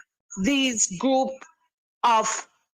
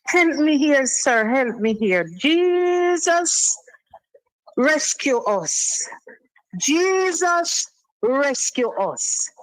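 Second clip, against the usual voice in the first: desperate plea. Real, not acted. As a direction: beg Jesus for help. Caller pleading to God.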